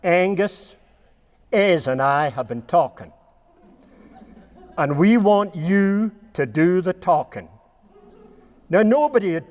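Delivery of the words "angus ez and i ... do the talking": lightly put-on Vermont American accent, slowing at the end; a hint of a Vermont American accent, ending on a laugh; Henry Carse accent. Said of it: "I'll do my best Henry Carse accent".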